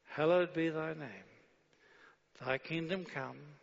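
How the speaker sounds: unhurried, reverent prayer reading; leading the congregation through the prayer slowly; slow savoring prayer. Shown as a demonstration. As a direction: savor each line slowly. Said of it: "read it slowly and savor it".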